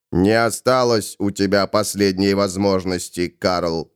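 low, restrained refusal; measured low voice; calm Ravenor. Acted.

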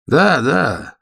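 suddenly keen, grab the chance; perking up. Acted. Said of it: "оживился Вячеслав". (оживлённо)

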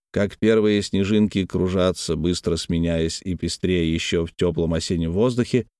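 ordinary delivery

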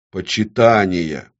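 slow, firm single word; dictating an oath. A narrator's reading. Demon dictating the next word, slow and firm. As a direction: proclaim it for her to repeat. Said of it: "Она должна была повторять".

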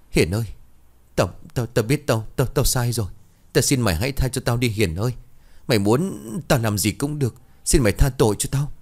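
begging. Acted. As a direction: beg for your life, stammering. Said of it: "van xin".

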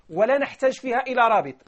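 ordinary delivery

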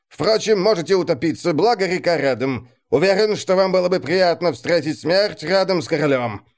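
lightly voiced, cool sardonic officer. Cool officer mocking a duke.

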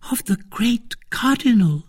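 high, questioning wife's voice; incredulous echo. Acted. Wife echoing her husband's boast, incredulous. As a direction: throw it back in disbelief.

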